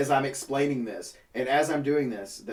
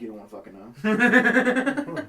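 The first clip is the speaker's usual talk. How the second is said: slow, higher, laughing tease; teasing laugh; 9 semitones higher, 6 dB louder, much slower than usual. Retold or imitated. Teasing the manager about his salary, laughing. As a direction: draw it out, grinning.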